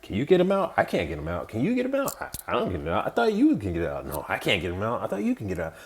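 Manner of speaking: lightly voiced slapstick routine mocking two leaders; mock Laurel and Hardy bit. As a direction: ham up a comedy duo passing the buck. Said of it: "Laurel and Hardy routine where they were like".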